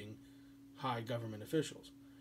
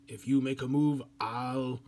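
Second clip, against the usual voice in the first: louder, tough-guy threat; Austrian guy's threat; 7 dB louder than usual. Retold or imitated. Austrian guy warning Serbia, louder and tough. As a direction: square up and warn him. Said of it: "the Austrian guy goes".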